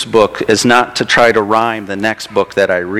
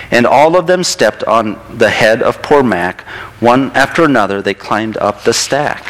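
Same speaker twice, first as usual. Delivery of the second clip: lilting, expressive picture-book narration; storybook read-aloud. A narrator's reading. Reading a turtle story to a child in church, storybook read-aloud.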